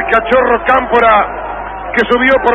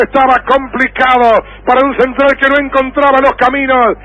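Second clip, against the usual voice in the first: excited goal replay; 3 semitones higher than usual. Acted.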